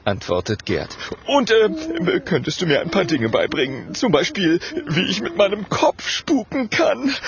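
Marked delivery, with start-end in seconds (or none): 1.3-7.1 high, hesitant then hopeful; keen little ghost voice; eager request. A narrator's reading. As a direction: ask it bashfully but excitedly. Shy, eager ghost asks a favour.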